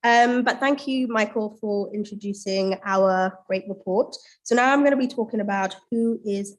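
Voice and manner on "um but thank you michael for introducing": stuffy, blocked-nose speech; nasal voice from a cold. Real, not acted. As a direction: talk through a head cold. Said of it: "apologies for my very nasally voice".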